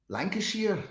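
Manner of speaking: unsure try at Lancashire speech; attempted Lancashire accent. Streamer who rarely hears the accent, attempted Lancashire accent. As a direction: have another uncertain go at Lancashire. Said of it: "I don't know what a typical Lancashire accent is".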